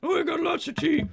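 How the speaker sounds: high, loud cartoon barmaid; troll barmaid voice. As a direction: take orders like a blunt troll. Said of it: "troll barmaid answers".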